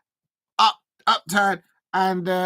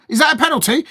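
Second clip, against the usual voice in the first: surprised; 7 semitones higher, 7 dB louder, faster than usual. Real, not acted. Reacting to a possible penalty.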